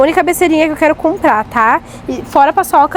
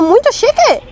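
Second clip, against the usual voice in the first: imitating the doll; 9 semitones higher, slower than usual. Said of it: "Teu filho falou".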